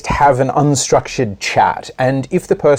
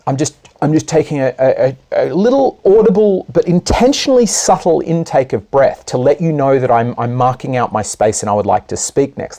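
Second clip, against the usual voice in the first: feminine hesitant signal. Retold or imitated. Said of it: "the feminine habit will be".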